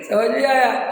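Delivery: asks समझ में आया? through a real laugh; laughing while checking the congregation understood. Real, not acted. Laughs at own joke.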